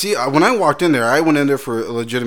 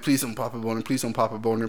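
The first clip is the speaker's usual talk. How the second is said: silent pleading; 2 semitones lower, 7 dB quieter than usual. Retold or imitated. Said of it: "the whole time I'm like".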